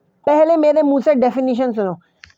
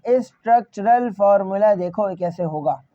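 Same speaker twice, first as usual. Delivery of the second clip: स्ट्रक्चरल फॉर्मूला broken into spaced syllables, lower in pitch; 4 semitones lower than usual. Shown as a demonstration. Teacher repeats the phrase more slowly.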